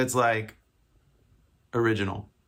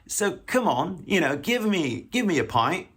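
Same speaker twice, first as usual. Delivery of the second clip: hammed-up, higher-pitched British accent; 5 semitones higher than usual. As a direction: jokily order like a Brit. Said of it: "the hundredth best British accent".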